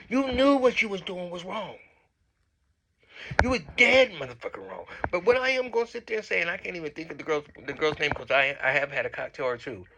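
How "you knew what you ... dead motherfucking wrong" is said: higher-pitched, emphatic telling-off; indignant scolding. Real, not acted. Vlogger telling a castmate she was wrong, scolding. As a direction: call them out, pitch lifted.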